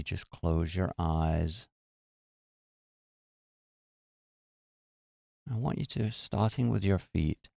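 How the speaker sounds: unhurried meditation guide with long pauses; guided meditation. Real, not acted. Teacher leading listeners to relax their muscles, calm guided meditation. Leads a body-scan meditation.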